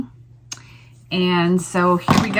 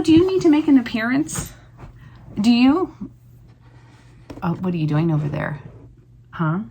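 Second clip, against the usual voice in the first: talking to a dog. Real, not acted. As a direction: gently coax the sleepy dog. Talking to sleeping dog Apollo.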